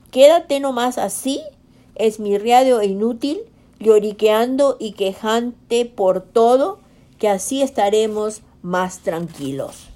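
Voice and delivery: distrustful monkey. Acted. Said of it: "dijo desconfiado".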